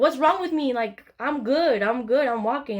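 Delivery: re-enacted defensive outburst; indignant protest. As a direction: insist you are fine, worked up. Retelling indignant protest to helpers.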